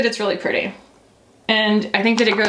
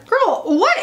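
high, laughing exclamation at her own reflection; laughing outburst; 12 semitones higher than usual. Real, not acted. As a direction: burst out laughing at it. Laughing at camera view.

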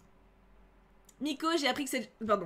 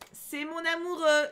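slow, higher, drawn-out "amoureux"; lingering lovestruck repetition; dreamy swoon; 4 semitones higher, 4 dB louder, slower than usual. Shown as a demonstration. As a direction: sigh it like a lovesick teen. Swooning over Nevra.

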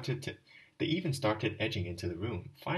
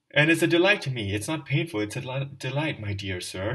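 crying out; 3 semitones higher, 8 dB louder than usual. Acted. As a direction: cry out while being dragged by the hair. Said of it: "he kept crying out".

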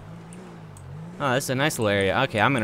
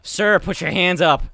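louder, higher, slow command; firm shouted order; 4 semitones higher, 7 dB louder, slower than usual. Pretend. Cop ordering the suspect's hands back up, shouted command. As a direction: project it hard at the suspect.

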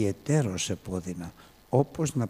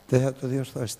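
incredulous; 2 semitones higher than usual. Shown as a demonstration. Preacher mocking the doubt to his congregation, incredulous. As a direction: scoff at «Δεν θα το διορθώσει» as absurd. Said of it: "τι λέτε".

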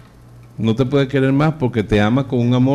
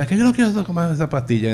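put-on whiny old mother; 6 semitones higher, faster than usual. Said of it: "Y ella decía".

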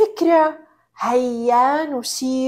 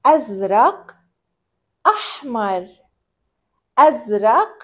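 put-on reading to a toddler. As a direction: talk gently to a toddler. Talking to a toddler.

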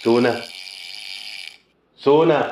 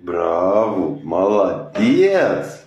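lower, slow praise; 3 semitones lower, much slower than usual. Real, not acted. Praising the pet after a trick, low and slow. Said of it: "coaching pet through trick".

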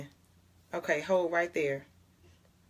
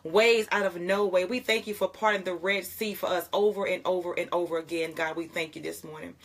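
earnest spoken prayer to God, fading at the close. Acted. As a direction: lead the morning prayer with devotion.

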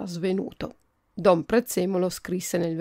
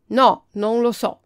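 short, loud, slow refusal; curt answer; 3 semitones higher, 7 dB louder than usual. A narrator's reading. Sor Pisello answers the prince curtly, loud and dry. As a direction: snap it off dryly. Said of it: "rispose seccamente".

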